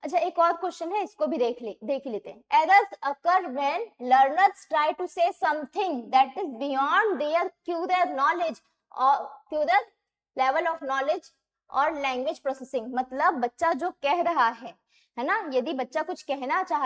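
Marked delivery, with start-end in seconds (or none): 2.6-12.9 slow, even reading of a long exam statement; slow question reading. Shown as a demonstration. Teacher slowly reading a test statement aloud. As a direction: read it so students can follow.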